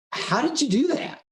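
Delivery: amazed proud dad. Retold or imitated. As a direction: act out a father marvelling at his son. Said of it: "with parental pride".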